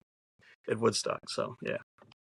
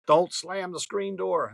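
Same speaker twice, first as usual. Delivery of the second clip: higher, slow scolding rule; drawn-out scold like a parent; parental warning; 6 semitones higher, slower than usual. Retold or imitated. Parents warn the kid about the door, slow and scolding.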